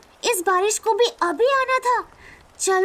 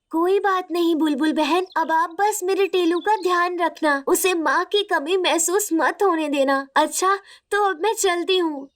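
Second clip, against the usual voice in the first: much lower, soothing motherly ghost voice; gentle mother spirit; 5 semitones lower than usual. Acted. Mother spirit says farewell. (माँ की आत्मा, गहरी और ममता भरी आवाज़ में)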